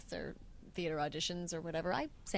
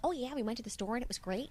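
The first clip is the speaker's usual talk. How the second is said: put-on Midwest accent; 4 semitones higher, 4 dB quieter, faster than usual. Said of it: "hold your mouth a little bit broad".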